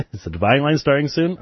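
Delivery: reading a question through a chuckle; barely held-in laugh; amused read-out. Real, not acted. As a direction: read it out while starting to crack up. Reads chat question, breaking into laughter.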